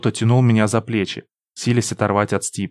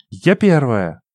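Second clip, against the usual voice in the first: breathless triumphant cry; out of breath; 2 semitones higher, slower than usual. A narrator's reading. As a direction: pant it, stress on я. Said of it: "задыхаясь, крикнула она".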